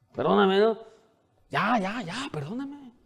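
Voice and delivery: high, brushing-off apology fading to a mumble; dismissive mock apology. Pastor imitating husbands apologizing carelessly to wives. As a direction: toss off a careless sorry.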